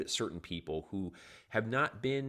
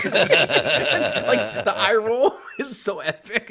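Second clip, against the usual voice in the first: laughing; 11 semitones higher, 13 dB louder, much slower than usual. Real, not acted. Laughing over favourite scene.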